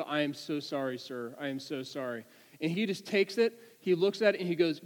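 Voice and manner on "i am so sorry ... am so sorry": soft, low, submissive apology; meek apology. Retold or imitated. Driver apologizing to the trooper, meek. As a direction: act out a humbled driver apologizing.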